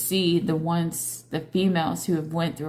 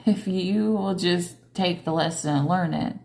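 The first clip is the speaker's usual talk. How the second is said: normal talking voice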